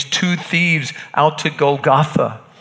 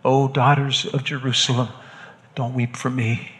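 retold gently, softer and tender; gentle; 4 dB quieter than usual. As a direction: pass on his gentle words softly. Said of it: "he said gently to them".

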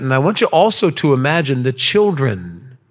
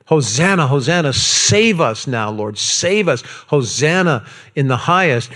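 a lightly raised crowd cry; mild mock yell. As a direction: call out praise, held back. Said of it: "They're yelling".

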